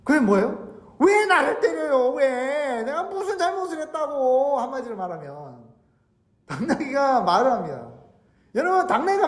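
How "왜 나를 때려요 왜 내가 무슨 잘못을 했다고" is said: high, wailing talking-donkey voice; complaining donkey. Acted. Donkey speaks up to the master who beat it, aggrieved. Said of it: "갑자기 하나님이 당나귀 입을 열어주세요".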